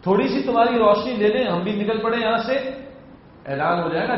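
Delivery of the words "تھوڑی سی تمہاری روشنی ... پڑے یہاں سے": pleading hypocrites. Acted. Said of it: "اب وہ ایمان والوں سے کہیں گے".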